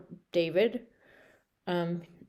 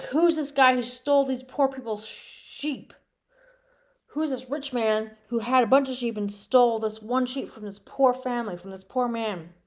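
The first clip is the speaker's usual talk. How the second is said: higher, indignant questioning; mock anger; 4 semitones higher than usual. King David demanding who stole the sheep, indignant. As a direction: demand to know who did it, riled up. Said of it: "he got all mad".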